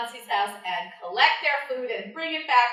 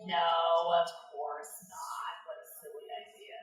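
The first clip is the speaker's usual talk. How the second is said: mock scoff; 7 semitones lower, 5 dB quieter than usual.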